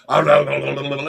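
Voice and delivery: low, babbled slobbery licking noise; imitated dog licking. Dog licking her on the ground, imitated slobbering. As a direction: mimic a big dog licking away.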